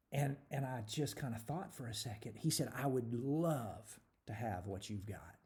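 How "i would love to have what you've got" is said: quiet confession. Retold or imitated.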